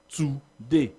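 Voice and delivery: TO in "today" stretched and stressed over DAY; stress on first syllable. Shown as a demonstration. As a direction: split "today" in two, leaning on the first syllable. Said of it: "emphasize the first syllable over the second".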